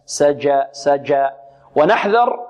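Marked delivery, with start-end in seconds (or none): 0.0-1.3 سجى with the sound stopped on ج; hard mid-tongue ج in سجى; correct jim. Shown as a demonstration. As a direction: model سجى with a firm plosive jim. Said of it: "انحباس الصوت".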